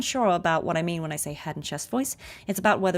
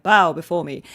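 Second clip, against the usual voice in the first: projected chest voice; 2 semitones lower, 8 dB louder than usual. Shown as a demonstration. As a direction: boom it out from the chest like a queen. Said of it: "it's so much more projected".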